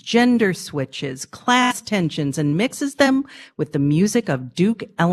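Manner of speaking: bright announcer read over music; radio host read. Real, not acted. Host opening the anniversary segment, bright announcer read. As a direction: sell the show open like an announcer.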